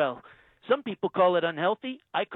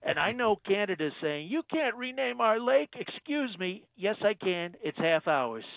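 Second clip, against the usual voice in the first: Trump impression. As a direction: play the president, smug and self-assured. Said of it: "Donald Trump".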